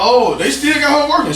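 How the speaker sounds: high-pitched replay of dismayed reaction; retold dismay. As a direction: lift the voice high in retold disbelief. Retells dismay at trainee's needle attempts.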